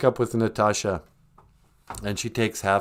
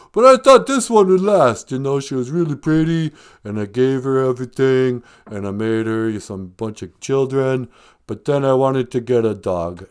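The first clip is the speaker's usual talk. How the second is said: lightly voiced boxer telling his woes; Sylvester Stallone. Film star explaining the dog argument, lightly impersonated boxer.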